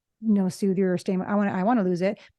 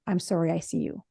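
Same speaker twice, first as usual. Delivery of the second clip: softly offered reassurance; soothing; 5 semitones lower, 5 dB quieter than usual. Acted. Therapist reassuring an upset mom, soothing. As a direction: say it gently, to comfort. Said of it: "and soothe her in that moment".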